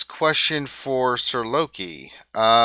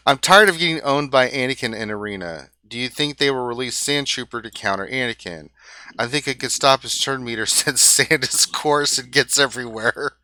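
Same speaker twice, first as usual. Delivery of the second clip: trying to read it while cracking up; a laugh breaking into the read-out question; reading through laughter. Real, not acted. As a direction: read it out, barely holding back laughter. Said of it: "read without laughing so much".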